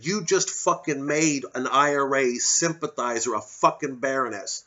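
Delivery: voicing an imagined angry rebuttal; mock outburst. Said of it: "He could have said".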